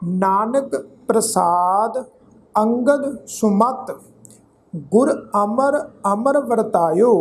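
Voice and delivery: slow, measured verse reading with drawn vowels; scripture recitation. Shown as a demonstration. Teacher recites sacred verse to congregation, measured recitation. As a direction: recite phrase by phrase, pausing between.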